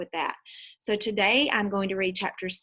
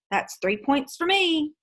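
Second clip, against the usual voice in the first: put-on higher, slow teasing boy voice; playful boy; 8 semitones higher, 4 dB louder, slower than usual. Nick teasing Janet on the curb, playful and slow. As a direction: claim the point like a kid winning a game. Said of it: "Nick said".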